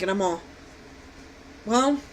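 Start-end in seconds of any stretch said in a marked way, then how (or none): 1.6-2.0 laughing. Retold or imitated. Own reply retold laughing.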